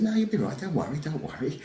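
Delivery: high, soft, soothing brush-off; breezy reassurance. Retold or imitated. Comedian calming the panicking events organiser, retold soft high reassurance. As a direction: wave the worry away lightly.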